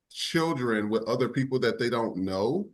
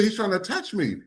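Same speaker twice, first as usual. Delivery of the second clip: scared little sister; 7 semitones higher than usual. Retold or imitated. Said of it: "he said".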